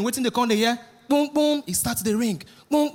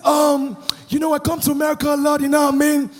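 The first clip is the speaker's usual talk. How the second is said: fake American accent. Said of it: "He said".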